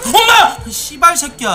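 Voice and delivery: screaming in shock after a jump scare; startled scream. Real, not acted. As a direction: yell out in fright, then curse.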